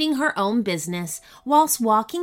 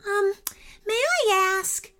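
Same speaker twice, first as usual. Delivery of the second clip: polite; 10 semitones higher than usual. Acted. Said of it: "said Ananya politely".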